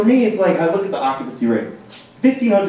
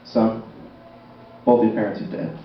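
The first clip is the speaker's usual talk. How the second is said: police officer; 6 semitones lower, 5 dB quieter than usual. Retold or imitated. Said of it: "This is my impression of a police officer".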